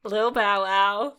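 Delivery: slow, loud, stretched name; drawn-out mock. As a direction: savor the name slowly.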